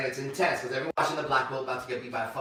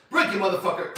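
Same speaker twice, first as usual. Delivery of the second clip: raised, louder joking dare; mock yell; 5 semitones higher, 5 dB louder than usual. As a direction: replay the yell half-seriously. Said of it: "I yell out".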